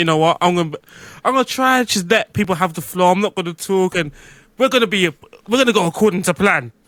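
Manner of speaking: normal talking voice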